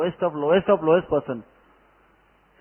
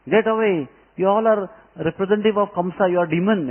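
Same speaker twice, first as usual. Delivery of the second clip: raised, louder angry dismissal; angry scolding; 5 semitones higher, 4 dB louder than usual. Retold or imitated. Mother Yashoda turning away the sadhu, angry and raised.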